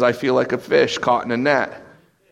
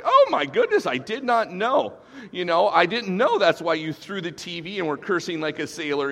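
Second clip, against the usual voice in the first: much higher, hammed-up gasp of surprise; mock shocked God; 5 semitones higher than usual. Preacher mocking a shocked God, hammed-up surprise. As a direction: play God as falsely astonished. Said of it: "he's not like".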